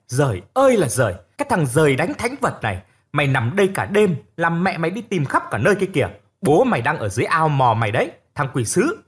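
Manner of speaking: fast, exasperated scolding with a long wailing ơi; scolding mother. Acted. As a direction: tear into the lost boy, half relief half fury. Mother scolding found son.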